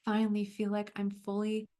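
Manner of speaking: gentle, unhurried guiding voice; calm coach leading a visualization; guided visualization. Acted. Leads a visualization.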